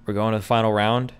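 long pauses, low-pitched results announcement; slow, grave game-show elimination; suspenseful reveal. Real, not acted. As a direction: draw out the verdict, pausing before the names. Host reveals who is eliminated.

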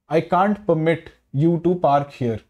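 permit read slowly as the verb, MIT stressed; slow example, lean on MIT in permit. Shown as a demonstration. Teacher reading the verb example, permit stressed on MIT. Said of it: "हम एमआईटी पे ज्यादा stress डालेंगे".

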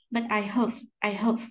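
"have" said as "həv"; repeated weak "have", neutral short vowel; weak form. Shown as a demonstration. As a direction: reduce "have" to a schwa in "I have". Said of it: "đọc dạng yếu của nó".

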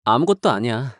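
hide the hurt under a small denial; subdued denial. Acted. After a long pause, subdued denial.

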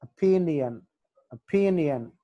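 ఒపీనియన్ with the stress on "pin"; ఒపీనియన్, second syllable stressed, then falling. Shown as a demonstration. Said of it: "పి దగ్గర stress".

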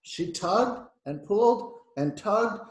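slow, punched verbs; effortful narration. A narrator's reading. Engine starting the heavy train, effortful. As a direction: lean on each pull with effort.

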